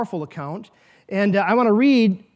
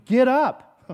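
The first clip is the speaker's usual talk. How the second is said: raised command; 4 semitones higher, 5 dB louder than usual. Acted. Jesus commands the dead man.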